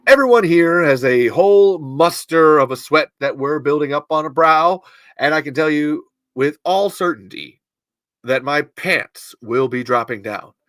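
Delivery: put-on old-time newscaster in a mid-Atlantic accent; mid-Atlantic broadcast voice, words stretched and projected. Shown as a demonstration. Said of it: "the mid-Atlantic accent".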